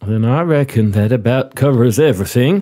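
put-on courteous Southern-accented interviewer; genial southern commander. Commander offers the applicant a seat, genial southern role. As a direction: play a hospitable commander running an interview.

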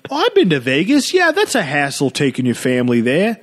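put-on Midwestern dad accent. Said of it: "I don't know what that accent is".

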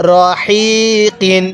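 রহিকিন very slow, light throat air on the long হি; breathy H. Shown as a demonstration. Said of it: "গলার মধ্যে হালকা বাতাস বের করবেন". (রহিকিন-এর হি গলা থেকে হালকা বাতাস ছেড়ে, টেনে)

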